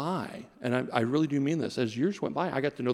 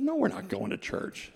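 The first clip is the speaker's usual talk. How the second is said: flat refusal; 11 semitones higher than usual. Retold or imitated. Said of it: "I said".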